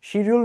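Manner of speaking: শিডিউল said as "shi-di-ul"; wrong pronunciation. Shown as a demonstration. Teacher rejecting the local form, শিডিউল as "shi-di-ul". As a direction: start শিডিউল with sh, clear d. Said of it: "এটা ভুল".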